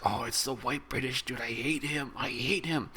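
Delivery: lightly voiced Indian filmgoer hating the white villain; mock Indian audience. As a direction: boo the villain as the Indian crowd. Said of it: "So that way India could be like".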